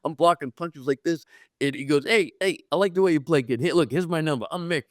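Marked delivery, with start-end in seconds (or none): 2.0-4.8 higher-pitched, friendly reassurance; retold hearty welcome. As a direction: play the star taking the kid in. Mantle befriends rookie.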